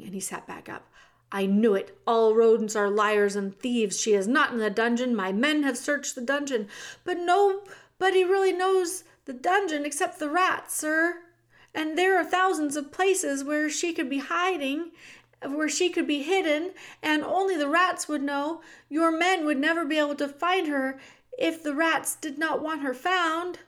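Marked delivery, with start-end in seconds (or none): 1.3-6.7 loud, scornful accusation; brand him a liar; angry king. Acted. The king accuses the mouse of lying, loudly. 7.0-23.6 high, insistent little mouse voice; earnest mouse. Acted. The mouse insists only the rats know, high and earnest.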